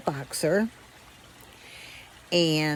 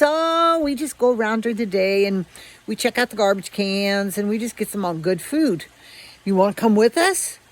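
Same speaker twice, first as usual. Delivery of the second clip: tempting stray; 4 semitones higher, 3 dB louder than usual. Retold or imitated.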